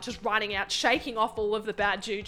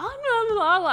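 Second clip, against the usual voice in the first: put-on hysterical old lady; 12 semitones higher, 5 dB louder than usual. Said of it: "she's like".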